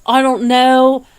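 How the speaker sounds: put-on half-successful Hungarian accent, drawn out; imitated Hungarian accent. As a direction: mimic the Hungarian lady, loud and slow. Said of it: "you know, in her accent".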